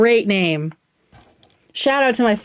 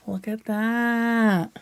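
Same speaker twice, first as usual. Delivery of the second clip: hushed awe; 6 dB quieter, much slower than usual. Real, not acted. Admiring the blush swatch.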